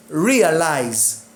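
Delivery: "Realize" with RE prominent, falling after; stress on first syllable. Shown as a demonstration. Teacher applies the suffix rule, "Realize" stressed on re. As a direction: say "Realize" leaning on re. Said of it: "the stress remain".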